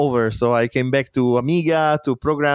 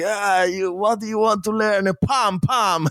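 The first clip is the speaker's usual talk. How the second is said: mocking bully; 6 semitones higher than usual. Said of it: "they were like".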